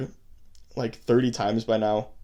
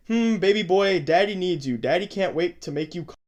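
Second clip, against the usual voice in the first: mock creepy voice; 5 semitones higher than usual. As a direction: ham up the creep reading his texts. Reading predator's messages in voice.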